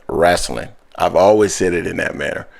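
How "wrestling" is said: wrestling said the Southern way. Shown as a demonstration. Host showing the caller his Southern wrestling. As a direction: give wrestling its Southern twang. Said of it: "the one word that I say with a very Southern accent".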